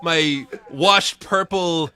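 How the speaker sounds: mock Pauly Shore. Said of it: "video of Pauly Shore".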